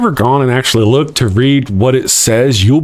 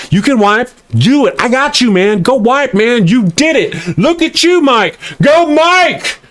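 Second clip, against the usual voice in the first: hype man; 5 semitones higher than usual. Retold or imitated. Tyson's paid hype man cheering him on, rising excitement. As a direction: pump him up like an overeager sidekick. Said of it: "this guy back in the day who followed him around".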